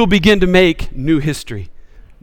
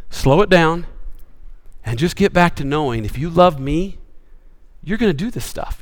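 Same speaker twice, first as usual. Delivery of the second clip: softer, settling voice; calming reassurance; 3 semitones lower, 7 dB quieter than usual. Acted. Jesus calling busy followers back, calm and reassuring. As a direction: ease them down, quieter.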